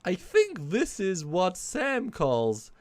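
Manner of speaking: high put-on Southern colonel puppet voice; Puppet Foley voice. Puppet complains to the stream chat in a Southern accent. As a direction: play the indignant puppet with a Kentucky drawl.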